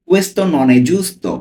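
very slow, word by word; teacher reading "Questo non è giusto" at a crawl for learners; slow Italian model reading. Shown as a demonstration. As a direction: spell out Questo non è giusto slowly, each word apart. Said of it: "আমি slowly পড়ছি।".

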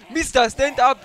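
commanding order. Acted. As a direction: bark the order again. Repeats order, higher.

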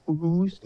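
"Worcester" as a questioning "Woo-stah?"; "Worcester" tentatively said "WOOO-sta"; questioned pronunciation. Shown as a demonstration. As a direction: ask it with a stretched "oo" in "Worcester". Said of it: "Is that how you pronounce it?".

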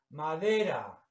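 "Madera" with the E stressed, then falling. Shown as a demonstration. Teacher showing students the tonic syllable, stressed E. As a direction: lean on the middle syllable of "Madera". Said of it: "es la sílaba tónica".

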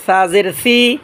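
"সা জের সি" with th, tongue at front-tooth tips; lisped th for S in "সা জের সি"; tongue-tip THA. Shown as a demonstration. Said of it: "সামনে দাঁতের আগার সাথে".

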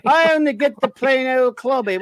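mock aggrieved listener. Host voices a listener jealous of Fiona, hammed-up whine. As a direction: read it as a sulky complaint. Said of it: "Max asks".

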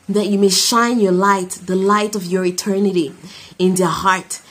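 earnest spoken prayer voice. Real, not acted. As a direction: pray over the listeners. Leads a closing prayer.

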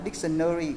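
dictionary as dik-sun-nuh-ree; wrong NƠ-RI dictionary. Retold or imitated. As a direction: mimic the mistaken "dictionary" with a schwa before "ry". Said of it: "Còn không có nào là".

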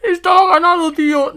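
high, strained wail of protest; real distressed disbelief. Real, not acted. Player losing a won game to a dropped connection, distressed disbelief. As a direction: plead in disbelief, voice pitched far up.

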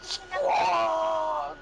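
high crying shout; cartoon cry. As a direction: wail the word out.

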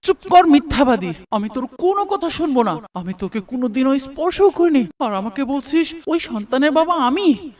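loud furious orders; angry shouting. Acted. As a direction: throw her out of the house. Husband drives out wife angrily. (রাগে চেঁচিয়ে)

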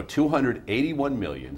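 measured teacher's dictation, drawn out. Shown as a demonstration. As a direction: dictate it slowly for someone writing it down. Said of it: "say it again slower for you".

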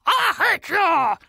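slow, playful imitation of the grumpy cat; hammed-up grouch line, said slowly; mock grumpy. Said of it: "Scary Kitty says that all the time".

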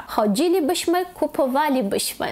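choDZIlibyśmy, kupoWAlibyśmy; fourth-from-last stress. Shown as a demonstration. Teacher modelling plural conditional, stress fourth from end. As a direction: hit DZI and WA in "Chodzilibyśmy, kupowalibyśmy". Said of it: "на четвертий".

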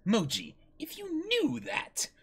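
loud, high furious scolding; angry captain. Acted. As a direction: chew out your crewman. Buggy scolding his crewman.

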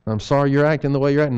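rushed, sarcastic apology; fast snide non-apology. Shown as a demonstration. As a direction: toss it off with an attitude.

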